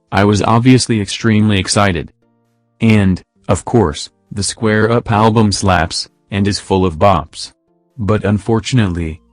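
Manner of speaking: monotone text-to-speech voice; flat synthetic robot read. Real, not acted. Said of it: "I'm using the robot voice".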